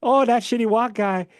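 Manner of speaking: high, slow put-on cartoon voice; cartoon character voice. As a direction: quote the character slowly. Quoting South Park character.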